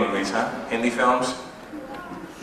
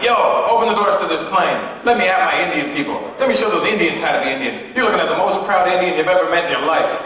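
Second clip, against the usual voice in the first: retold yell; 6 semitones higher than usual. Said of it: "I'm yelling at the stewardess".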